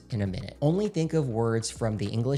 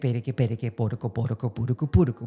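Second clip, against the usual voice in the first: four rounds, one breath; faster than usual. Shown as a demonstration. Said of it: "do it four straight times in one breath".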